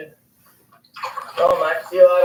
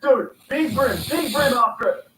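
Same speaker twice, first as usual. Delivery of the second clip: excited; 5 semitones higher than usual. Real, not acted. Big brim chasing the lure.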